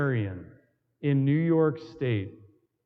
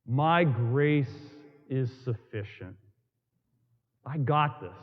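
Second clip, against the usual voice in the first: a touch lower and calmer, reassuring; hint of a lower, tender divine voice; God's gentle voice; 5 semitones lower than usual. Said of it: "God speaking to me".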